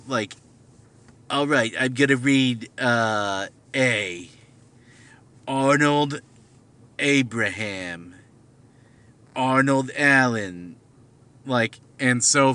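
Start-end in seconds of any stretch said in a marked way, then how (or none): 1.3-10.8 Jewish voice. Shown as a demonstration. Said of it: "like, in a Jewish voice".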